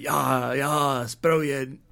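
imitating Welsh locals in his own Scottish accent. Scot quoting Welsh locals' approval, still in a Scottish accent. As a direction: quote them with an unchanged Scottish accent. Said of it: "they don't say it in a Scottish accent".

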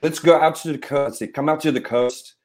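lightly voiced action-hero impression; Bruce Willis. Shown as a demonstration. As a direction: recall a film line in character. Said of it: "do it in my Bruce Willis".

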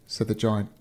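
ordinary delivery, nothing marked

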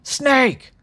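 high, urgent mock shout; hammed-up second cry for help; shouted safe word. A narrator's reading. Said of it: "he was shouting his safe word".

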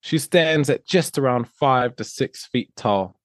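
put-on English accent, measured delivery; playful attempt at an English accent. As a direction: read it out in a mock English accent. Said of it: "do it in an English accent".

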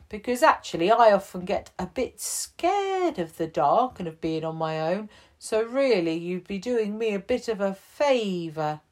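offering the bear a home; kind chief. Acted.

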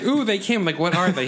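excited. Retold or imitated. Matt voiced excited in story.

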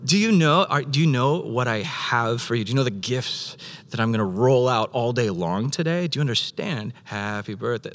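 put-on a dad bursting in on his toddler's birthday; God as a proud father waking his toddler on their birthday, eager then tender; excited loving father. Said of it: "like a loving father running into his toddler's room saying".

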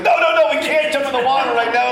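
high, loud hurried no no no; frantic refusal. Retold or imitated. Dad to son who wants to jump in, frantic refusal. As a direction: shut the idea down in a mock panic.

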